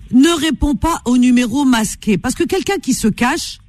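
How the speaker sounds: slow, deliberate advice, each word set apart; insistent warning. Real, not acted. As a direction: drive the advice home slowly. (mise en garde insistante, lente et posée)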